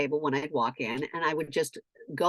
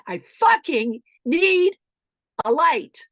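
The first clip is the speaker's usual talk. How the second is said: high, loud, drawn-out demand; staged meltdown shout; acted distressed outburst; 8 semitones higher, 8 dB louder, much slower than usual. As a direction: shout it slowly, word by word. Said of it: "And I start crying".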